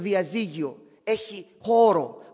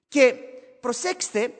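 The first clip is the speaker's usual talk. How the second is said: usual speaking voice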